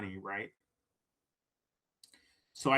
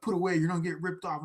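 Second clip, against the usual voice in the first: raised, higher warning from a cop; mild retold yell; 5 semitones higher, faster than usual. Police officer telling him off, mock yell. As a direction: bark it half-heartedly, like the officer. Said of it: "yelling at me".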